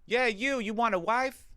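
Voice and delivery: high, slow croaky crone calling out from behind the trash; cackling old hag luring a stranger, drawn out; old lady voice. Retold or imitated. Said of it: "old decrepit lady".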